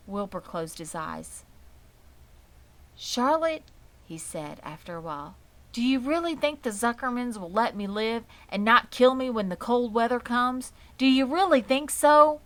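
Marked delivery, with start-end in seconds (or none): 2.9-12.4 higher, louder anxious plea; anxious pleading. A narrator's reading. Wilbur asking Charlotte if he will live, high and pleading. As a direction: beg for reassurance.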